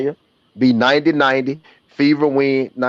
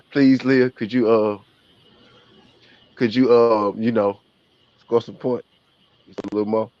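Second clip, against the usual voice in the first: pleading. Shown as a demonstration. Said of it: "That's how you gotta say it to her".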